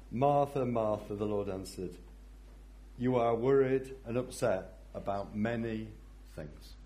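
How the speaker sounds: gently, carefully; loving, careful. Acted. Jesus lovingly correcting Martha, careful and gentle. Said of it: "very carefully and very lovingly".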